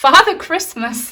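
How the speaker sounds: loud, high exclamation, laughing very loudly through words. Speaker announcing a figure who has just appeared, laughing loudly. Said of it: "I'm laughing so loud".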